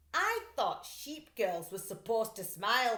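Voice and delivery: eye her suspiciously; suspicious thief. Acted. Luther questions Max.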